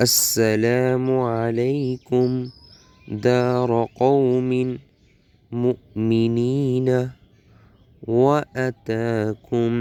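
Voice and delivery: slow, measured recitation with long drawn vowels; dua reading. Shown as a demonstration. Teacher reads the grave-visit dua for learners, slow drawn-out recitation. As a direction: recite phrase by phrase, pausing between. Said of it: "একবার reading পড়ে যাচ্ছি".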